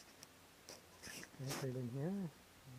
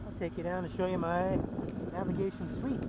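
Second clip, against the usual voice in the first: shouting over machinery; 3 semitones higher, 5 dB louder than usual. Real, not acted. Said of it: "Sorry for the loud engine".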